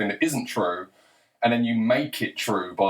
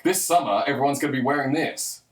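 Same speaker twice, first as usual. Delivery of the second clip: higher-pitched, breezy magazine announcement; magazine prediction; 4 semitones higher than usual. Acted. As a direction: announce the coming trend like a forecast. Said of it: "it's not a psychic prediction".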